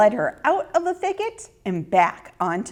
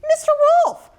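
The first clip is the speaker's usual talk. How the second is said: put-on much higher, sweet little girl greeting; friendly greeting; 4 dB louder, faster than usual. A narrator's reading. Ruthie greeting the wolf as an old friend, much higher. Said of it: "greeted the wolf like an old friend".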